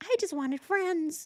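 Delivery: very high, tiny, pleading little bug voice. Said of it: "they're all screaming for help".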